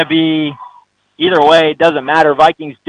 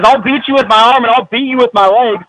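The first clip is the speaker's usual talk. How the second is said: voicing the quarterback; 8 semitones higher, 3 dB louder than usual. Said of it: "He says".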